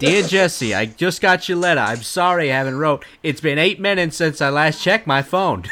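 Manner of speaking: a hint of a rapper's persona; lightly voiced rap letter in a rapper's style; rapper impression. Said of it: "me trying to do a rapper".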